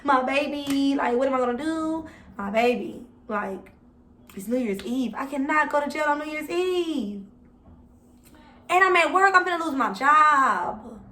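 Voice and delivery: pleading with officers on New Year's Eve. Retold or imitated. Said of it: "plead my case".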